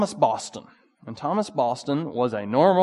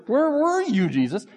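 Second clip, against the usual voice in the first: raised, pleading cry of the grieving sisters; higher and louder, pleading with Jesus; grieving sister's cry; 11 semitones higher, 3 dB louder than usual. Acted. Grieving sister asks Jesus why he was absent, pleading and louder.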